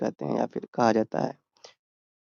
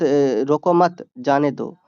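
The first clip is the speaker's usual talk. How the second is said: slow रोको मत, pause, जाने दो; slowed रोको मत with a stop before जाने दो; comma pause; slower than usual. Shown as a demonstration. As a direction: break the phrase after मत. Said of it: "केवल एक अल्प विराम".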